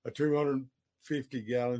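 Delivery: talking through the hiccups; hiccupy, interrupted breath. Real, not acted. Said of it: "excuse me, I have the hiccups".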